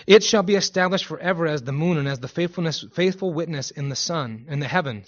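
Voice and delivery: formal Bible reading; scripture reading. Acted. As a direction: read the verse out to a congregation. Reads a Psalm aloud.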